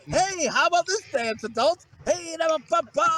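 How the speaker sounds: lightly hammed-up crowd-pleaser, lifted pitch; eager entertainer. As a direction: play the eager fool entertaining the grown-ups. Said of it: "I'm always entertaining for people".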